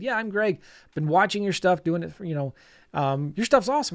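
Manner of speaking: hint of an easygoing Southerner; Greg. Workshop guest introduces himself to the teacher, lightly imitated Southern boy. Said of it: "he's a good old Southern boy".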